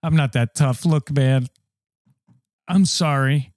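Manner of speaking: put-on deep voice, backing down. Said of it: "He's got a deep voice".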